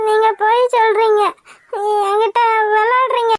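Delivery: tearful, voice catching on the words; crying. Acted. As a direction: protest through tears. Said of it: "ஏன் இப்ப அழுகுற?". (அழுதுகொண்டே பேசுதல்)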